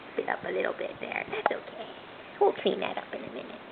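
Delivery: soft whispered reassurance; hushed soothing. Real, not acted. Soothing baby after spit-up.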